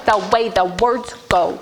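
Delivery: lightly voiced robot, even and mechanical; a hint of a robot, evenly spaced words. Shown as a demonstration. Teacher demos a light robot voice to the class. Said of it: "Did you hear my robot voice?".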